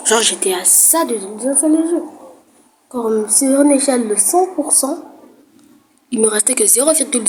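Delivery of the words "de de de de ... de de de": comic stutter. Pretend.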